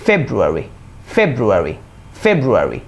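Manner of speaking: ফেব্রুয়ারি as English "FEB-ru-eri", falling; pronunciation drill. Shown as a demonstration. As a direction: model ফেব্রুয়ারি evenly, pausing between takes. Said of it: "এখন তাহলে শুরু করি". (শুদ্ধ উচ্চারণে বারবার)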